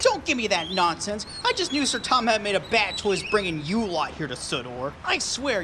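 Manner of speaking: a bitter engine muttering insults at the diggers; quiet seething anger. Acted. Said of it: "His patience finally gave out".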